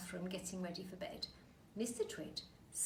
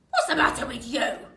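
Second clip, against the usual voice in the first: louder, mock-innocent old man with a laugh; Mr Twit voice; 4 semitones higher, 17 dB louder than usual. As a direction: feign innocence, gloating. Mister Twit feigning innocence.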